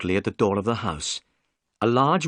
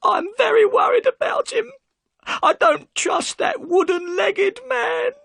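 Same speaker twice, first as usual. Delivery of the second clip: loud, much higher sobbing plea; wailing her fear of the stranger; crying; 5 dB louder than usual. Acted. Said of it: "and burst into tears".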